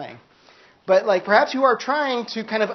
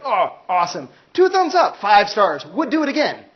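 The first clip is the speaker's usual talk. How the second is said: mock enlightened Siddhartha; 2 semitones higher, 4 dB louder than usual. Teacher imitating Siddhartha reviewing enlightenment, chirpy rave. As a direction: gush like a happy customer rating it. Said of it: "He was like".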